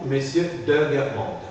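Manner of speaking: "de" before Guermantes as a full syllable; particle E pronounced. Shown as a demonstration. Teacher models a surname for student, "de" fully articulated. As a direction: sound the E in "de", never "d'Guermantes". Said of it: "dans la particule de".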